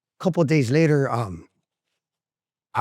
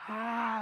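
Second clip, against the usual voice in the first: antsy groan; 9 semitones higher, 11 dB quieter than usual. Retold or imitated. Imitates antsy withdrawal.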